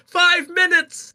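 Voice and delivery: high, drawn-out announcer's call; imitated high, stretched shout. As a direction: call out a time warning to a crowd. Announcer's call during a retold race.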